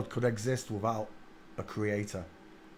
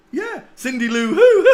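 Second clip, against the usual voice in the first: high squealing laugh; real giggling fit; 13 dB louder than usual. Real, not acted. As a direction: burst into shrieking laughter. Laughing at the resemblance.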